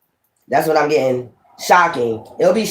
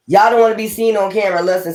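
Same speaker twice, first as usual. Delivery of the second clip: laughing tease; 4 semitones higher, faster than usual. Real, not acted. Teasing viewers about lusting.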